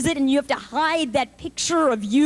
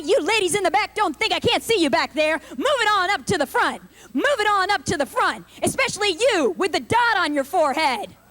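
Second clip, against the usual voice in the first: condescending instructor. Retold or imitated. Aerobics instructor scolding ladies in the back, bossy. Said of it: "so condescending".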